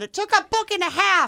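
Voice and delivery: high, exclaiming payoff cry; excited outburst. Retold or imitated. Reader re-enacting the long-awaited payoff for friends, excited. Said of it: "jumped up when I finally got to the payoff and said".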